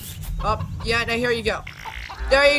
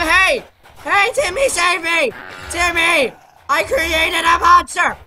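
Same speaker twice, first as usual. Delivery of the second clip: higher-pitched mock plea for rescue; mock panic; 5 semitones higher, 4 dB louder than usual. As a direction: call out to Timmy in playful alarm. Pleading to Timmy for rescue.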